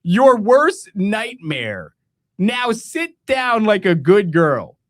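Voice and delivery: smothering laughs while quoting a taunt; slow, laughing mock threat; laughing mock menace. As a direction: quote the taunt slowly through giggles. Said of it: "he goes".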